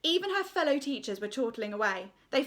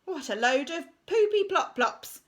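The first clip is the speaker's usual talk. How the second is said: disgusted verdict; 7 semitones higher, 6 dB louder than usual. Acted. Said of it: "was his verdict".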